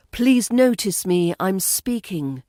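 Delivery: mock bid to be noticed; attention-seeking plea. Podcaster voicing what British pronunciation avoids, attention-seeking.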